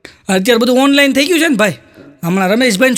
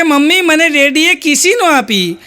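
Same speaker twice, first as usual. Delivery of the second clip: higher, slow, mock-whimpering little boy; whiny crying child; 5 semitones higher, slower than usual. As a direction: drag it out like a sulking kid. Crying child answers his mother.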